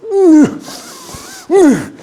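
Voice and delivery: mock straining effort; straining grunt. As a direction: groan under a heavy load. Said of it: "이러고 있고".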